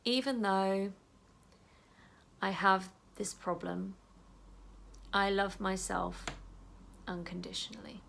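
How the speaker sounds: calm self-talk while tapping; gentle affirmation. Shown as a demonstration. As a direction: say it tenderly to yourself. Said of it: "tap very gently and just say".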